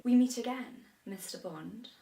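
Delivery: a hint of a sly villain; Bond villain. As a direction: play the villain greeting Bond. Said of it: "You be the villain".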